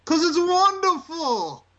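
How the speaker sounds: high, slow sing-song cry; high drawn-out catchphrase; Bray Wyatt catchphrase. Retold or imitated. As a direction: draw out wonderful like a cult leader.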